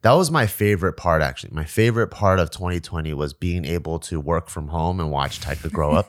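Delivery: talking with tissue stuffed up his nose; tissue up one nostril. Real, not acted. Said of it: "white toilet paper sticking out of your nose".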